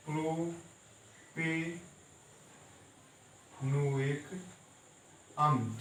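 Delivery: slow: प्रोपे, pause, नोएक, then अम्ल; syllable by syllable. Shown as a demonstration. Teacher breaking the word apart for students, slowly. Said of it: "ये कहलाएगा".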